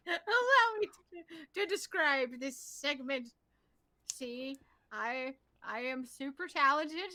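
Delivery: hammed-up self-important boasting; mock egotism. Mocking the host's ego, pompous impression. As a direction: imitate a preening show-off introducing themselves. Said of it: "I told you about the ego".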